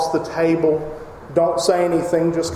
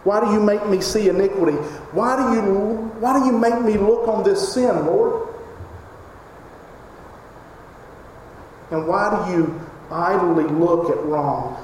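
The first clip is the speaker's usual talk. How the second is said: frustrated; 2 semitones higher than usual. Acted. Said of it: "He is frustrated".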